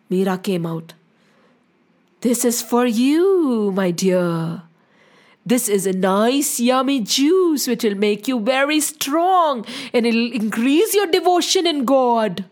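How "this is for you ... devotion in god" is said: lightly voiced sugary offer, drawn-out opening; lightly coaxing, stretching the words to tempt; scheming villain's offer. Rana offers Meera the poisoned juice, falsely sweet.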